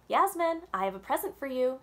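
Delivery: called up the stairs, loud and bright; calling out. A narrator's reading. Father calling his daughter downstairs, loud and cheerful. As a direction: sing out her name from downstairs. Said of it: "he called".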